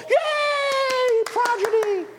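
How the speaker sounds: high, loud mock cheer; cheering crowd. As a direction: whoop it like the in-crowd. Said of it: "everybody who's in the know will go".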